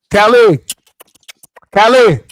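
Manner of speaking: calling out. Real, not acted. Calling out to Kelly.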